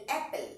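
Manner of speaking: "অ্যাপল" opening on a short 'a' as in cat; correct pronunciation. Shown as a demonstration. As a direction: say "অ্যাপল" with an open 'ae' first vowel. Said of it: "pronunciation দেখো অ্যাপল".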